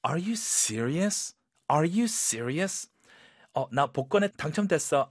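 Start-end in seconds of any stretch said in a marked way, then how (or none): 0.1-2.9 disbelieving. Shown as a demonstration. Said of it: "믿기 어려운 상황에서는 이런 톤으로".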